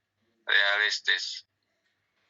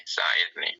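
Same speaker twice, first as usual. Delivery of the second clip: whispered; 3 semitones lower than usual. Shown as a demonstration. Teacher repeating the command word to the class in a whisper. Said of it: "yang mengandung amru".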